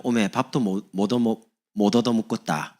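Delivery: imitating a Jeolla speaker; Jeolla dialect. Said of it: "전라도요". (전라도 사투리로)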